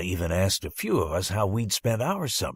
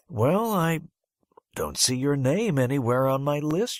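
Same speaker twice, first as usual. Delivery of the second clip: lightly voiced, higher teacher tone; puzzled teacher; 6 semitones higher than usual. Teacher telling the boy he isn't on her list, puzzled. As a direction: sound puzzled and a bit condescending.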